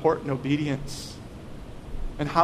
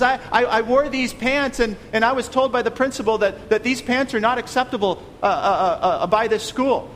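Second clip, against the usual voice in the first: put-on higher, louder whiny kid telling on the school; complaining child; 4 semitones higher, 3 dB louder than usual. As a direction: play the aggrieved kid reporting to dad. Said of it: "The child comes home and says".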